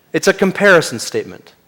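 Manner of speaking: ordinary talk, nothing marked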